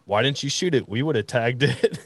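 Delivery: high, incredulous parents; mock disbelief at the missed shot; parents' high incredulous reply; exasperated. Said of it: "the first word out of both my parents' mouths".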